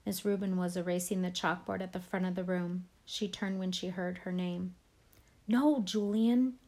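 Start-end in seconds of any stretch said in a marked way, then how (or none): 5.5-6.6 slow, louder urgent hiss of a plea; trying to stop him. Acted. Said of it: "I whisper screamed".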